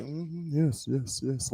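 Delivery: soft, polite little church murmurs; mock polite congregation murmur. Mocking a too-gentle church, soft polite murmuring. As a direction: imitate a too-gentle congregation nodding along. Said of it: "if you're too kind of like".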